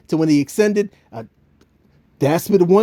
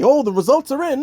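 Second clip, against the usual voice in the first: mock talk-show reveal; 9 semitones higher than usual. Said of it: "Jesus is like".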